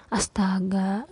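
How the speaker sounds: can't believe it isn't ironed; disbelieving. Acted. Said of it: "tanyanya tidak percaya".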